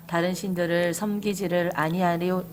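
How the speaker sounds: 조용히 다 함께 읽는 본문; 회중이 한목소리로 차분히 읽어 나가듯; congregation reading along. Real, not acted. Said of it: "시작!". (회중이 함께 읽는 조용한 합독)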